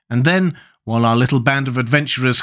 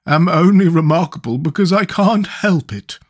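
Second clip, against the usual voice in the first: higher, forceful creature voice; Sawhorse's voice; 6 semitones higher, 4 dB louder than usual. A narrator's reading. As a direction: declare it in a raised creature voice. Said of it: "declared the Sawhorse".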